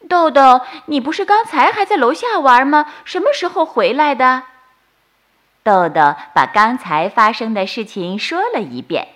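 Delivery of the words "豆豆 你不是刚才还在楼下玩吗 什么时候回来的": puzzled. Acted. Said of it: "很奇怪".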